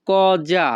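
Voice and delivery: "কজা" with a voiced z-like middle sound; pronunciation demo. Shown as a demonstration. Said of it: "এর উচ্চারণ হবে".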